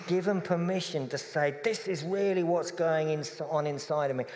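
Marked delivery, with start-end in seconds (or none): 1.6-4.2 high, impassioned outburst building to a louder demand; raised-voice anguished demand; furious, hurt. Retold or imitated. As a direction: pour out the hurt and anger, pitch climbing. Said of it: "I am cross, furious, hurt".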